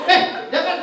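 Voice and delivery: high, loud startled "no"; mock alarmed protest. Babysitter stops the boy grabbing him, high alarmed protest. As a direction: stop the kid's hand fast.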